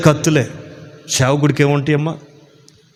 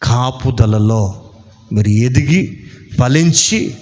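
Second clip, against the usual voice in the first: slow, chanting preacher's blessing; measured, solemn church benediction; closing benediction. Real, not acted. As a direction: intone the blessing slowly, building to a drawn-out Amen.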